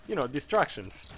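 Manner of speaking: poorly imitated Spanish-like accent on "distractions"; imitated foreign accent. Interviewer repeating herself to him, imitated vaguely Spanish accent. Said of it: "I'll try to replicate the accent".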